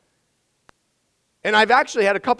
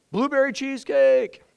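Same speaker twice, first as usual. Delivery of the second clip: feel like yelling; 5 semitones higher than usual. Real, not acted. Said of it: "I feel like I'm yelling".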